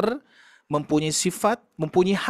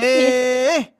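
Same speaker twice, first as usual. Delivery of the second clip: sharp, higher, louder "Eh."; scolding a child; 5 semitones higher, 3 dB louder than usual. Retold or imitated. Mother scolding her child with a sharp "Eh.". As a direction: snap "Eh." at a child to stop them. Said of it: "ketika saya menegur anak saya".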